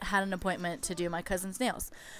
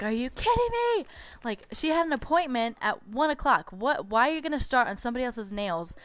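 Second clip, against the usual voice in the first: freaking out; 4 semitones higher than usual. Retold or imitated. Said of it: "I freaked out at this point".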